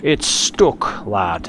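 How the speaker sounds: put-on Irish accent. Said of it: "my best Irish accent".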